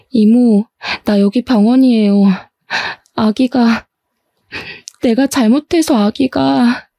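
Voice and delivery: halting, choked, slowing down; a niece telling her aunt about the lost baby, choked up; sobbing niece. Acted. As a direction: break off mid-sentence in grief. Niece crying on phone.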